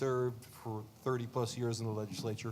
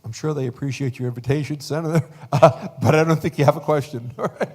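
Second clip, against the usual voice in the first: laughing; 4 semitones higher, 12 dB louder than usual. Real, not acted. Moderator teasing senator, laughing.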